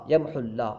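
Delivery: "یمحو اللہ" as one word with short u; joined reading. Shown as a demonstration. Teacher repeats for students, "یمحو اللہ" joined. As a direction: link "یمحو اللہ", dropping the long waw. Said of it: "جب ملا کے پڑھیں گے".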